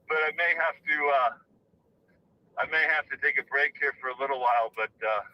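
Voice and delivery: winded, out of breath while walking. Real, not acted. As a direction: talk between breaths, out of breath. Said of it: "so I'm out of breath".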